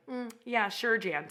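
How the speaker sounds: mock dismissive "sure, Jan"; sarcastic dismissal. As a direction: brush her off with fake agreement. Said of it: "it was very much like".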